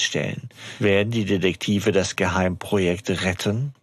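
measured story-blurb read-out; Klappentext-Vorlesen. Acted. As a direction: read the teaser aloud, stretching key phrases. Liest den Klappentext vor. (Klappentext spannend vorgelesen)

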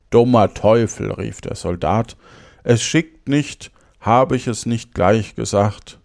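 storyteller giving each phrase its weight; fairy-tale narration. Acted. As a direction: read it aloud with lively emphasis and clear diction. Reads a fairy tale aloud. (Märchen lebendig vorlesen)

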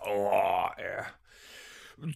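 whispered aside to himself; whispering. Real, not acted. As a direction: breathe the words almost silently. Muttered aside while guessing.

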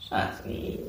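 put-on whispered little-girl coo; like a five-year-old. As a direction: wheedle like a guilty small child. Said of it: "so wie eine Fünfjährige". (wie eine Fünfjährige, geflüstert)

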